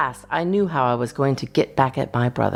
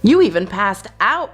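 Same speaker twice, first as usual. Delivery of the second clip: high, louder chirpy line; chirped; 6 semitones higher, 4 dB louder than usual. A narrator's reading. Brother chirping to his injured sister, high and louder. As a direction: pipe up brightly with the news. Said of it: "my brother chirped".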